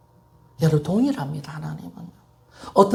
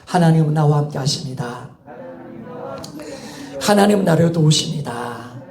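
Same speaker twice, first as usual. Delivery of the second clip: measured declaration for the congregation to echo; call to repeat; 2 semitones lower than usual. Real, not acted. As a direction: lead the congregation in a firm recitation. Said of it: "따라합시다".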